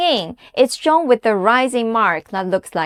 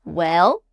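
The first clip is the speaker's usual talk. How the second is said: "Well?" dipping low, then rising; musing low-to-rising "Well?"; thinking out loud; 6 semitones lower than usual. Shown as a demonstration. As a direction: dip and lift "Well?" as if pondering. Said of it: "like you are thinking out loud".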